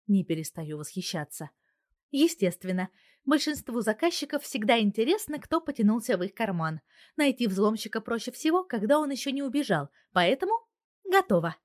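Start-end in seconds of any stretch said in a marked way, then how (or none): 2.1-11.6 higher, louder, pleased announcement; joyful. A narrator's reading. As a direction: proudly report her success. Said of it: "радостно сообщает она". (радостно и оживлённо)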